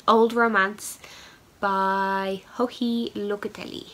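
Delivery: put-on a light, slow French lilt on "Old Romance by Joji Locatelli"; mock French accent. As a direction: say the pattern name with a playful hint of French accent. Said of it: "I don't know why I put on a French accent".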